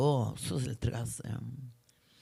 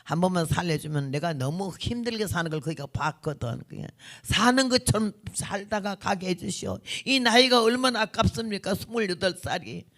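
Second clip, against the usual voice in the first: imitated Jeolla plea for mercy; mildly tearful retold prayer, Jeolla accent; Jeolla dialect prayer. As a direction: bargain with God in Jeolla dialect. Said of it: "이렇게 하면서 우는데".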